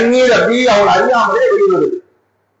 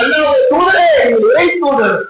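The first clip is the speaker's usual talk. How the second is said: pouring out grief. Acted. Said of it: "மனக்கவலையை கொட்டுகின்றார்கள்".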